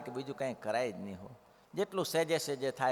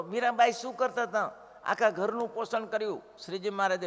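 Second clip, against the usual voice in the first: fervent preaching; 6 semitones higher, 3 dB louder than usual. Acted. Preaching with rising fervour.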